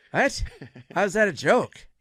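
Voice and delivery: high, loud, baffled question; Norm. Retold or imitated. Friend learning it was a joke, mock-baffled outburst. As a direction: mimic indignant disbelief. Norm's baffled reaction retold.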